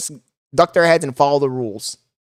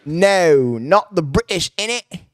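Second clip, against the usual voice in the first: mock British accent; 2 semitones higher, slower than usual. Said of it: "weirdest fucking accent".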